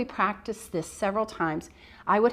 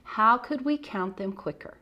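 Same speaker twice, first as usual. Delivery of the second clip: kindergarten teacher voice; 2 semitones higher than usual. Shown as a demonstration. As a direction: lively voice for young kids. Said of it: "And I go".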